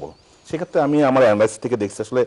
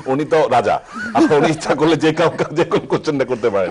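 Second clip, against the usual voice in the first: laughing; 5 semitones higher, 5 dB louder than usual. Real, not acted. Joking the interviewer is king.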